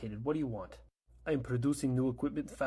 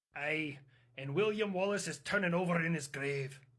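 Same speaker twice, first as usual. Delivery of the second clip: put-on Scottish accent, higher pitch; 5 semitones higher than usual. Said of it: "the accent comes quite natural".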